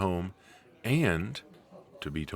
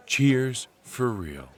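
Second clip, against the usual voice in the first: laughing toast; 5 semitones higher, much slower than usual. Acted. Toasting the listener again, laughing as he says it. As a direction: draw the toast out through a laugh.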